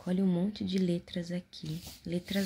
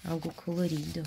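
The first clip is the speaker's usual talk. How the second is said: whispering. Acted. Whispered prompt.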